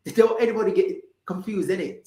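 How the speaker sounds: put-on quick, high, cheeky British accent. Host repeating herself for listeners, playful quick British accent. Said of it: "get in my British accent".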